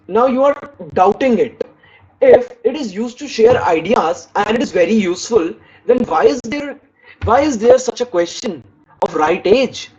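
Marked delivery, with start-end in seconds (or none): 2.2-9.9 rising, questioning doubt on there. Shown as a demonstration. Teacher showing students how to question with doubt. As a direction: sound skeptical, lift the phrase why is there. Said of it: "So you are trying to give emphasis".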